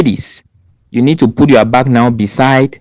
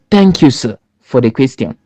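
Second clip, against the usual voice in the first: polite thanks. Shown as a demonstration. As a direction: open by politely thanking the jury. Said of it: "you start by saying".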